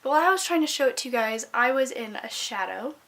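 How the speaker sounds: loud, roomy laptop mic sound; speaking into the built-in laptop mic. Real, not acted. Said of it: "this audio might sound weird because I'm not using my microphone".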